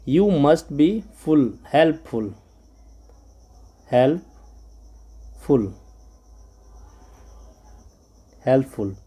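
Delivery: very slow, drawn-out helpful; slow modelling. Shown as a demonstration. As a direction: stretch helpful for pupils. Modelling slowly.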